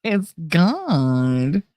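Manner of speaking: long swooping Jersey "God"; exaggerated Jersey vowel on "God". Shown as a demonstration. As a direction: draw out "God" in a Jersey accent. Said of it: "that's just the way we say it".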